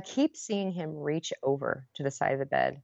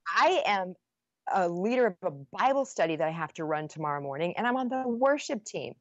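higher, heated protest; indignant rant; 4 semitones higher than usual. Retold or imitated. Wife lecturing her husband about her leadership, indignant. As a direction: build the outrage.

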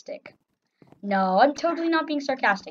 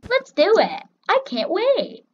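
loud, high fake eagerness; sarcastic excitement; 8 semitones higher, 5 dB louder than usual. Player pretending to look forward to sniping, sarcastic excitement. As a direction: overdo the eagerness, pitched up. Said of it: "I was being sarcastic".

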